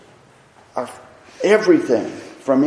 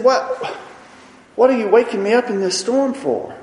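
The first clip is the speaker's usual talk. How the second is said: scolding; 6 semitones higher, 4 dB louder than usual. Retold or imitated. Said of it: "I think he scolded them".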